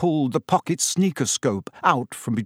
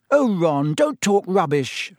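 snapping; 6 semitones higher than usual. Acted. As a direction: snap at him impatiently. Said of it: "snapped Hermione".

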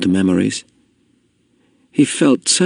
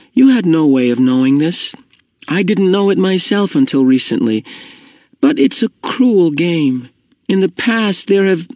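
higher-pitched, careful explaining; careful and kind; 9 semitones higher than usual. A narrator's reading. Jonas explaining to his friend Asher, carefully and kindly. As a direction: explain gently, choosing each word. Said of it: "trying to speak carefully and with kindness".

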